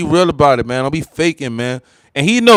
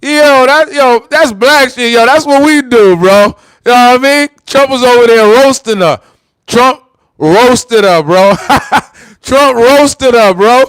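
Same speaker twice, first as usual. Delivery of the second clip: hyped up; 6 semitones higher, 4 dB louder than usual. Real, not acted. Cheering on the president's roast, hyped and high. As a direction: whoop it up, stretching the words.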